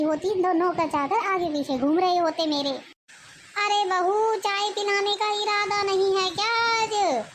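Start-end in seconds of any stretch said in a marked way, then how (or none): 3.6-7.2 raised, higher call to the daughter-in-law; sharp nagging summons from another room; calling mother-in-law. Acted. Mother-in-law calls the bahu for tea, raised nagging call.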